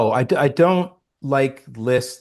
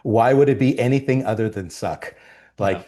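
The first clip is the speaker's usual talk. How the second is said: resigned. Retold or imitated. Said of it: "which is".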